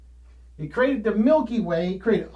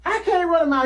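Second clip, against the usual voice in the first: high, loud exhausted protest; pleading athlete; 9 semitones higher, 5 dB louder, faster than usual. Retold or imitated. Worn-out runner protesting to the coach, high loud whine. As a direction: whine it out, spent. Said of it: "And you're like".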